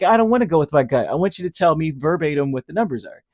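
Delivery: a mock-petulant client demanding answers; whiny demand. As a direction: beg for the lottery numbers, half laughing. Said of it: "you know".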